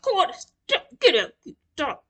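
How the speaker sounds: put-on high, laughing call to the toddler; half-laughing, shoo the little one away; laughing scold. Mom laughing as she tells Carter to stop.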